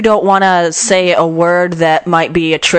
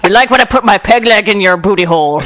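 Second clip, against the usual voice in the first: pirate voice; 3 semitones higher than usual. Pretend. Co-host jokingly plays a pirate lover, hammed-up pirate voice. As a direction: play a cheesy pirate growling a come-on. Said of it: "That's a pretty good pirate you got there".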